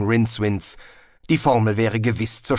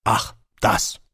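Death's voice. A narrator's reading. Death's offhand reply.

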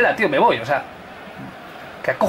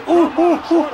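excited yells; 13 semitones higher than usual. Real, not acted. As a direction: yell it on as the ball flies. Ball flying at his goal.

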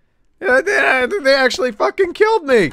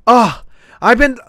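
Karen voice. Retold or imitated. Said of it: "they roll out their last word".

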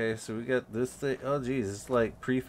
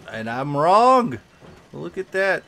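surprised; 8 semitones higher, 12 dB louder than usual. Real, not acted. Surprised reversal on camp.

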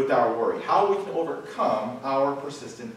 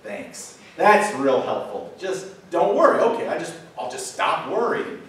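mock-grateful, louder and dripping with sarcasm; sarcastic reply; 3 semitones higher, 6 dB louder than usual. Congregation answering Jesus' command, sarcastic and mock-grateful. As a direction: play the fed-up listener, sarcastic thanks. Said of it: "we collectively say back to Jesus".

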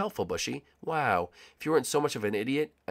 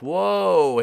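retold startled reply; 7 semitones higher, 9 dB louder than usual. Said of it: "I'm like".

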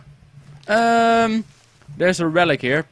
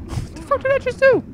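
laughing disbelief. Real, not acted. Laughing repeat after near drowning.

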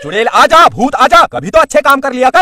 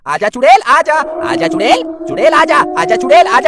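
mock witch summons; 2 semitones higher, 3 dB louder than usual. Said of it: "तो अंदर आजा".

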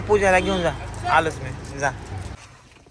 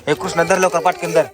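louder, hurried urging; urgent call; 5 dB louder than usual. Real, not acted. Father urges Krishna to take it, loud hurry.

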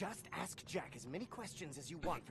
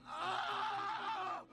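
hyperventilating; 8 semitones higher, 3 dB louder than usual. Acted. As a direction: panicky rushed breathless shout. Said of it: "I'm hyperventilating".

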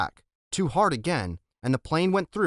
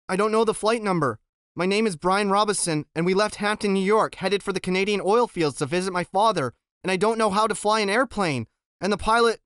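rattled voice; 6 semitones higher, 4 dB louder than usual. Acted. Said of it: "His voice was starting to rattle".

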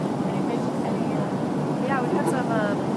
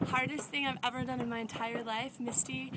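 panting words between breaths; gasping, winded after the climb; 11 dB quieter than usual. Real, not acted. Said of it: "after I catch my breath".

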